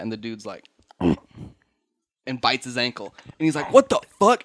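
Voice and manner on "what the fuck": high, loud startled outcry; shocked mock yell. Storyteller voicing a man bitten on the ankle, shocked yell. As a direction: yelp it out in alarm.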